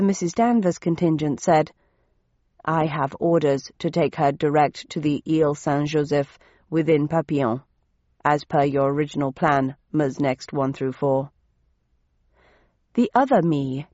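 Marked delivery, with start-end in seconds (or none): 2.6-11.3 lightly voiced low, even commander; dutiful commander. Commander stating her orders to a rival, dutiful and measured. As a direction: report your orders with measured authority. Story figure, Danvers commander.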